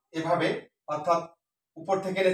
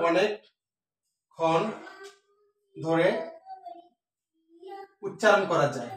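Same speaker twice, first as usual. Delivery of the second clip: drawn out slowly; much slower than usual. Shown as a demonstration. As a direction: stretch each word, very slow. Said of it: "টেনে উচ্চারণ করা যায়". (অনেক টেনে ধীরে বলা)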